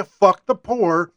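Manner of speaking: a slow, contemptuous caricature; slow mock sneer. A slow sneer mocking the president's line. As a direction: drag it out slowly, sneering.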